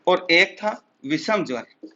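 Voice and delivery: slow, spaced dictation pace. Shown as a demonstration. Teacher dictating the second fever name to students. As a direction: give it word by word for the notes. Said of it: "इसी से लिख देते हैं हम".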